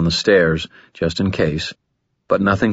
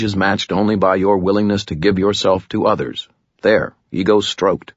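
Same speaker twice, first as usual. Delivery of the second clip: flat voice. Acted. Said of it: "said in a flat voice".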